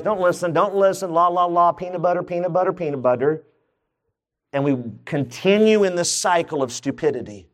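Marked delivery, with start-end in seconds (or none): 0.0-3.4 mock childish denial. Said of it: "Then he goes".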